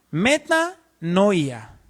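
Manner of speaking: metanoia said very slowly, syllable by syllable; teaching the Greek word metanoia slowly; metanoia spelled out. Shown as a demonstration. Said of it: "con I latina".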